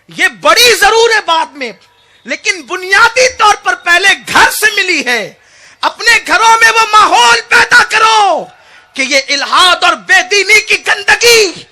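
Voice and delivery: loud, high preaching at full force; preacher thundering at the congregation; fiery preaching. Acted. Preacher urging parents to build a loving home, fiery and loud.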